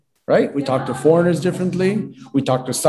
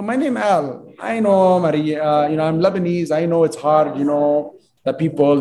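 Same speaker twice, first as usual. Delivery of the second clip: broken English. Retold or imitated. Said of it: "I'm Lebanese, so there's a foreign thing".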